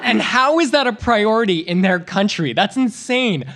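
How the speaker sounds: mock outrage. Comic acts outraged over goose reward.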